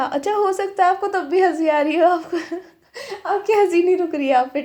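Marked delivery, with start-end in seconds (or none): 2.1-4.6 giggling. Real, not acted. Giggling while describing scene.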